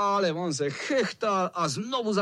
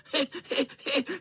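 vysoký škodolibý smích; zlomyslné chechtání; 11 semitones higher than usual. Acted. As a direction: chechtat se jako kocour. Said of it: "Chechtal se zlomyslný kocour". (kocour se chechtá klukům, zlomyslně)

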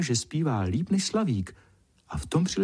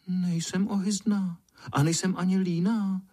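mild reply; 4 semitones higher than usual. Acted. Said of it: "ozvala se mírně pěnička".

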